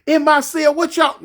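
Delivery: hammed-up furious cellmate yelling; imitating a jealous cellmate going off; angry inmate. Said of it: "He like".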